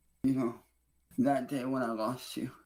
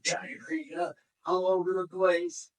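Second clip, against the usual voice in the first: disgusted; 6 semitones higher, slower than usual. Real, not acted. Disgusted at mess.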